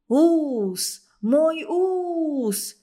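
high, loud howl of fury; roaring in outrage. A narrator's reading. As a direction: roar over the lost moustache. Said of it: "взревел Михалыч". (взревел в ярости, высоко и громко)

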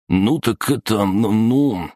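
high, halting goon voice; scared stammering. A narrator's reading. Thug backed against the car, stammering in fear. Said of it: "побледнел он".

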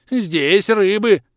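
high, loud, slow creature squeal; panicked water spirit squeal. Acted. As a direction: shriek it in panic. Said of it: "начал было Водяной".

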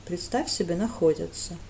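stung, muttered reply; stung grumble. Acted. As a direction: grumble back, piqued. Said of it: "уязвлённо проворчал Брент".

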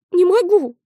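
refusing out of fear; girl refusing in fright; fearful refusal. Acted.

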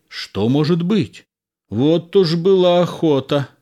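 high, agitated exclamations; excited soldiers. A narrator's reading. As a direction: react like an astonished crowd of soldiers. Excited soldiers watching a carriage approach.

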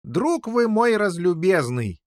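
slow, high exclamation; excited cry. A narrator's reading. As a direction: exclaim it, growing agitated. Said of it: "вскричал Пеленор, снова приходя в". (возбуждённо вскричав)

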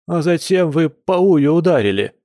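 high-pitched protest; indignant. Acted. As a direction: accuse indignantly, voice pushed up. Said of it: "возмутился Кир".

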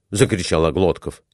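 ordinary delivery, nothing marked

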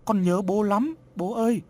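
put-on high, tearful child's wail; sobbing little boy calling his dad; crying child. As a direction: cry out for his father. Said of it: "rồi khóc lớn".

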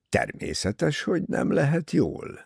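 irritated retort, pitch jumping up midway; gruff rebuke. A narrator's reading. Doctor rebuking Jackie's worried question, mildly snappish. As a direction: snap at her with mild impatience. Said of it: "förmet rá Bessner".

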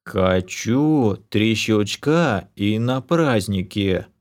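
slow, sulky elf voice; offended whine. Acted. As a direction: drag it out like a pouting child. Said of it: "обиженно пояснил Орбит".

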